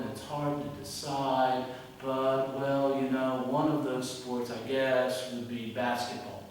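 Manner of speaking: slow, meandering mock answer; imitating rambling students. Teacher imitates students stalling in exam answers, rambling. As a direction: drag it out, circling before the answer. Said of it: "they would go something like this".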